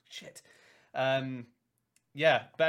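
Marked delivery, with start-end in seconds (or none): 0.1-0.4 muttered curse. Retold or imitated. Orc lost behind line.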